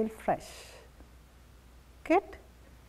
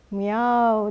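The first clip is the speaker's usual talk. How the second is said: drawn-out meow, lightly imitated; cat meow; 2 semitones lower than usual. Shown as a demonstration. Yoga teacher cueing cat pose, lightly imitated meow. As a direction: do a gentle imitation cat's meow. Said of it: "Can you do with the sound?".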